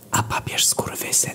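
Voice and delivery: soft unvoiced whisper into the ear. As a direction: lean in and whisper it close. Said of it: "szepczesz do ucha". (szept do ucha)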